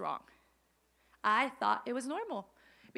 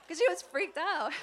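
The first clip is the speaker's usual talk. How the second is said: laughing through the words, louder and higher; 6 semitones higher, 4 dB louder than usual. Real, not acted. Pastor tells the congregation about mom, laughing. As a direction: giggle as you tell it. Laughing while retelling mom's panic.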